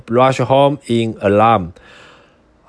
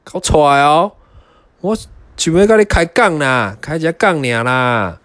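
werewolf; 3 semitones higher, faster than usual. Acted. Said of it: "大野狼口水直流地说".

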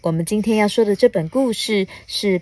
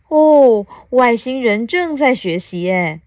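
raised, loud "oh" of discovery; fascinated little bug; 4 semitones higher, 5 dB louder than usual. Acted. Small bug watches alien learning, mildly amazed. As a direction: marvel lightly as a storybook bug.

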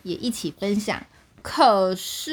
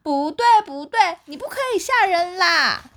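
higher, firm scolding rabbits; angry scolding; 9 semitones higher than usual. A narrator's reading. Rabbits angrily scolding the bear for scaring them. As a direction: tell him off sharply. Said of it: "生气地说".

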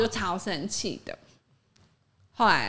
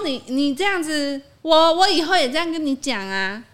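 imitating stutter; 6 semitones higher, 6 dB louder than usual. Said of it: "然后就一直结巴".

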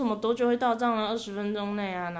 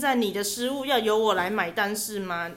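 scammer turning hard; 5 dB louder than usual. Retold or imitated. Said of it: "对方硬起来咯".

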